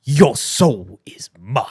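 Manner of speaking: slow menacing whisper; game villain voice. Acted. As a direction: breathe it slowly like a fighting game villain. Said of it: "I'm gonna do it in the game".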